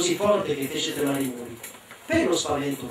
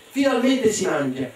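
jubilant; 5 semitones higher than usual. Acted. Child celebrates.

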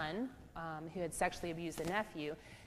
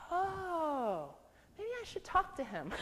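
higher, lightly mocking "oh, maybe I should"; dry ironic quip; 10 semitones higher, slower than usual. Therapist answering the client with a wry, higher quip. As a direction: toss it off with wry irony.

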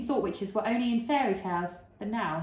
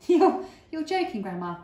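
shocked; 8 semitones higher, 8 dB louder than usual. Acted. Boy shocked.

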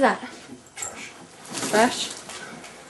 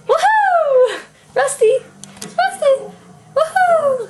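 high cheering shout; 5 dB louder, slower than usual. Real, not acted. Cheering and calling.

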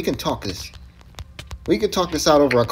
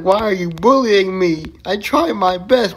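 mock whining; 5 semitones higher, 4 dB louder than usual. Mocking chat's quoted complaint.

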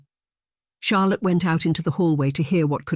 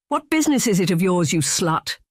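a mild yell, pitched higher; 4 semitones higher than usual. Acted. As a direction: snap it out as a half-hearted yell. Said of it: "he yelled".

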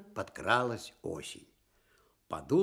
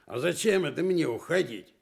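grumpy bear, louder; cross; 4 semitones higher, 5 dB louder than usual. Acted. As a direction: snap back at the fox, gruff and annoyed. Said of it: "сердито сказал он".

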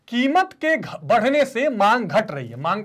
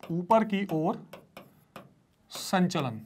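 very slow, spaced repetition, fading softer; slow emphatic term; 5 semitones lower, 8 dB quieter, much slower than usual. Shown as a demonstration. Teacher repeating the Hindi term, slow and deliberate. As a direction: drag the term out to fix it. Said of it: "teacher repeats term slowly".

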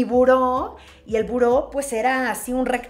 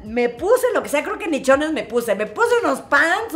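ordinary talk, nothing marked

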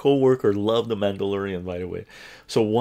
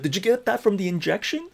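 sarcastic jab; 10 semitones higher than usual. Retold or imitated. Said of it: "I should have said".

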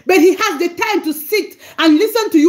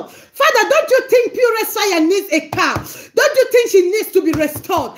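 pleading prayer demo. Shown as a demonstration. Preacher voicing a plea to God for Monica, pleading. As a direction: beg the Father for her. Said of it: "you are telling God".

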